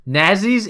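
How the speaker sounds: "Nazis" said as spelt with two Z's; deliberate pronunciation. Shown as a demonstration. Defending the story's spelling, "Nazis" said with Z sounds. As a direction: say "Nazis" with buzzing Z sounds, not ts. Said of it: "is the correct way to say it".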